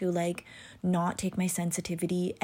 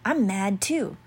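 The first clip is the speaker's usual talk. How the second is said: mock mad agreement; 4 semitones higher, slower than usual. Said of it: "all of a sudden I'm mad and I'm like".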